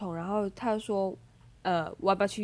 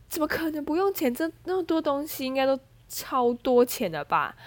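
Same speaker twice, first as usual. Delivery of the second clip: incredulous; 5 semitones higher than usual. Retold or imitated. Disbelief that it's free.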